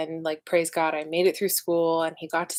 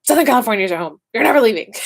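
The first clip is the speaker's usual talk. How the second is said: mock-stern mom; 4 semitones higher, 9 dB louder, much faster than usual. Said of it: "She's like".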